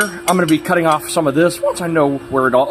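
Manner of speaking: voice crack. Real, not acted. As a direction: voice cracking mid-sentence. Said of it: "I had a voice crack".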